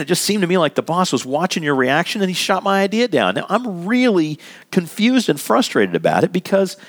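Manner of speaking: modelling a calm, sincere talk with Joe; calm honest opener. Shown as a demonstration. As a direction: speak openly but without blame. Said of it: "you can say".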